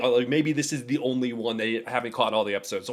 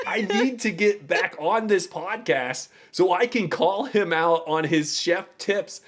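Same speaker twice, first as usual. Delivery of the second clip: laughing through it, a bit higher; half-laughing mock outrage; a laughing rant that the chef tips must be called out; laughing exasperation; 5 semitones higher than usual. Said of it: "I was crying, laughing with rage".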